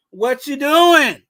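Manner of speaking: loud, drawn-out call at own pitch; mock yell at a player on TV; imitated TV yelling. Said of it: "I'm yelling at the T V".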